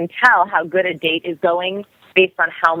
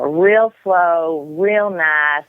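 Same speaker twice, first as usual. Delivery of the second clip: slow, lightly imitated Southern drawl; mild Southern drawl; much slower than usual. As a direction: stretch it out like a half-hearted Southern drawl. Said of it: "he spoke in a nice Southern drawl".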